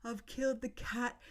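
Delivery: high-pitched mock wail; retold tearful panic. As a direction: act out bursting into tears, without full sobbing. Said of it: "and I've burst into tears".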